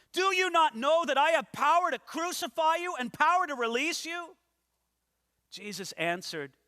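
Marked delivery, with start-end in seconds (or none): 0.1-4.3 higher and louder, leaning on power; threatening Pilate. Acted. Preacher voicing Pilate threatening Jesus with his power, forceful. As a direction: threaten with the cross.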